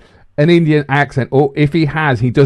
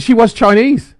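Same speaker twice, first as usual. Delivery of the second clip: "was" stressed and pitched higher; 7 semitones higher than usual. Real, not acted. Correcting co-host about the Scottish waitress, stress on "was".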